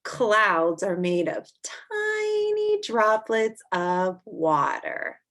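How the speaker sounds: slow, drawn-out read-aloud; reading to children. Acted. Teacher reading a snow book to kids, slow and clear. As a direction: read each line slowly to little listeners.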